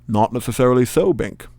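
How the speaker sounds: put-on villain in a Sean Connery-like accent; accidental put-on accent. Magician correcting his rival, in a Sean Connery-like accent. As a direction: slip into a hammy Connery-style accent. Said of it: "I don't know where that accent came from".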